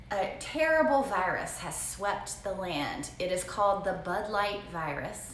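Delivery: slow, dramatic storybook reading; slow, solemn reading of the daughter's tale; reading a child's story. Retold or imitated. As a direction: read it like a grave prologue. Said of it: "What she wrote was".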